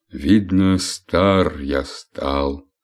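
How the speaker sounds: very slow, weary sigh; sighing old man. Acted. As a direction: let the age weigh on each word. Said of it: "вздохнул Век". (медленно, со вздохом)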